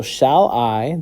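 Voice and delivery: "shall I" as two distinct syllables, rising at the end; separated syllables. Shown as a demonstration. Teacher separating the syllables to find meter, separated syllables. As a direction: split "shall I" into its two beats, lifting on I. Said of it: "separate the syllables".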